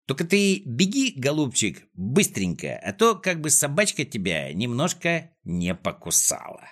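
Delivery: sweetly menacing, lightly voiced boss; mock-tender character voice; taunting villain. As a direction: coax your victim with a veiled threat. Klops taunts Neznaika before release.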